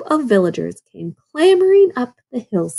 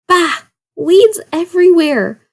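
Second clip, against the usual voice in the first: a loud grumpy growl, pitched up; 9 semitones higher, 5 dB louder than usual. A narrator's reading. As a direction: grumble it out like a cranky old wolf. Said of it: "the old wolf growled".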